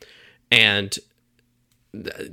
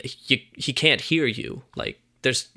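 lightly voiced Christopher Walken. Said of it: "Christopher Walken's like".

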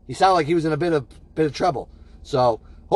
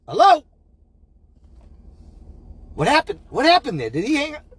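alarmed; 9 semitones higher than usual. Acted. Host alarmed, call dropped.

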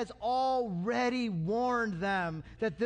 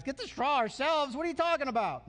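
griping. Acted. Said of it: "You can imagine the griping".

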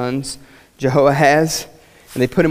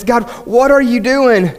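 questioning God; 7 semitones higher, 4 dB louder, slower than usual. Acted. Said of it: "we all run into times like this".

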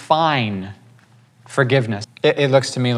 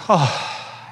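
relieved sigh; 4 semitones higher than usual. Retold or imitated. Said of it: "lifts off of him".

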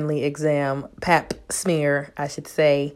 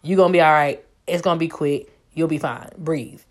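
put-on soothing girlfriend; 3 semitones lower, 3 dB quieter than usual. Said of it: "she was like".

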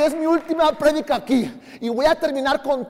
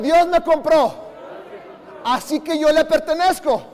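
louder repeat; 3 semitones higher than usual. Shown as a demonstration. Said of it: "Otra vez".

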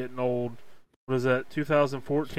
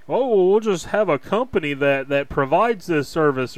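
mocking naive voice; 2 semitones higher, 5 dB louder than usual. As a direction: parody a naive idealist. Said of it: "some ethereal ideas about".

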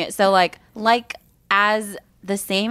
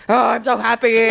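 imitating flat happy; 3 dB louder than usual. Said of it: "your voice is supposed to sound".

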